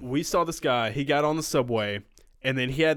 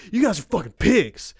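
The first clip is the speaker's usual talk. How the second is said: higher, louder mock rant at the passengers; imitated angry rant; 5 semitones higher, 5 dB louder than usual. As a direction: tell them off like an insulted performer. Angry performer insulting passengers.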